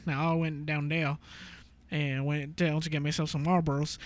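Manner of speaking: lightly imitated Cajun accent. Imitating a Cajun acquaintance in a light Cajun accent. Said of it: "Like, that's how he talks".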